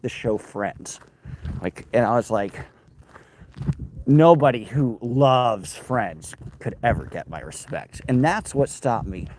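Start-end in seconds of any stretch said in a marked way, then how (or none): 4.1-8.0 slow, grave, put-on pronouncement; mock solemn verdict. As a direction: deliver it like a stern judge. Mock verdict on Friends fans.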